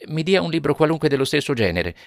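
a mother flustered, wanting out fast; embarrassed woman. Acted. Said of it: "parve imbarazzata e disse".

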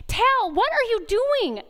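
a mom's firm voice at her son. Retold or imitated. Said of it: "we say a firm voice".

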